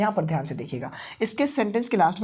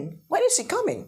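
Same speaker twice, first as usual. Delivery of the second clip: higher classroom model; higher repeat; 10 semitones higher, much slower than usual. Shown as a demonstration.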